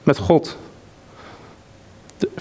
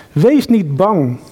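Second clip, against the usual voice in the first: reassuring; slower than usual. Retold or imitated. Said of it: "die toon van Jezus".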